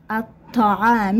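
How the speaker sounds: الطعام slowly, L silent and T doubled; slow demonstration of الطعام without the L; silent lam. Shown as a demonstration. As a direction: draw out الطعام as "at-ta'aami". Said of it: "إذن لم ننطق هنا".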